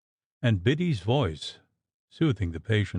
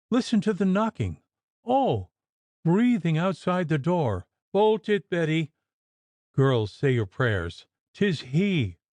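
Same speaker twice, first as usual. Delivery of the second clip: high, frightened urgent warnings; delirious terror; 7 semitones higher than usual. Acted. Mistress warning the frightened maids, high delirious fear. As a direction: warn the maids in wild dread. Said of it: "muttering to the frightened maids".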